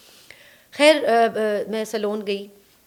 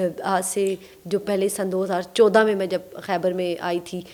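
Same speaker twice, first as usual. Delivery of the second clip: ordinary delivery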